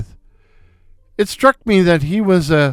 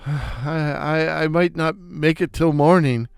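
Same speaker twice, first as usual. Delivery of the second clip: softer, faltering dying gasp; choked out; 5 dB quieter than usual. Acted. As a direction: choke it out like your last words. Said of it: "I managed to choke out".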